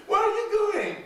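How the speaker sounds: high shouted witch question; shrieking witch. Acted. Witch asks the boy where he is going, high shout. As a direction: screech it out like a witch.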